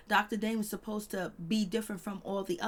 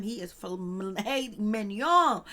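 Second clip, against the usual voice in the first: slow, savoring, louder praise; admiring the husband like a prized dish, slow and sassy; 5 dB louder, much slower than usual. Pretend. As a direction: drag each word out like a tasty dish.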